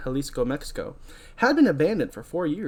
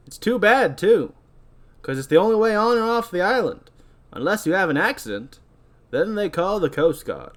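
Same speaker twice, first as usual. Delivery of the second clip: higher, swinging put-on captain voice; ferry captain character; 5 semitones higher, 3 dB louder than usual. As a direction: play a salty captain with emphatic lilts. Voicing the ferry captain's dialogue.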